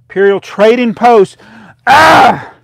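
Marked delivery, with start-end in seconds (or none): 1.9-2.5 sharp startled yell, very loud and high; a real yelp that blasts the mic; sudden yell. Real, not acted. Startled streamer yells into the microphone. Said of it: "didn't mean to yell into the microphone".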